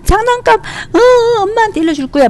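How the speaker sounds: put-on very high-pitched child's wail; whiny mock crying. Younger sibling blaming sister for broken toy, tearful whining. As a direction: imitate a little sibling whining through tears. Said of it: "동생은 보통 막 울면서".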